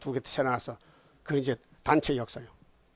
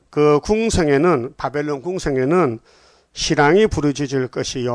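louder, declaimed verse; scripture reading; 6 dB louder than usual. Acted. Preacher rereading the last verse to the congregation, emphatic declamation. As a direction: read it out firmly, word by word.

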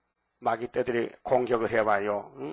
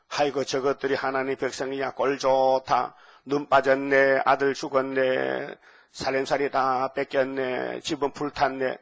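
mocking jeer. Nations pointing fingers at Jerusalem, mocking. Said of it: "예루살렘을 손가락질해요".

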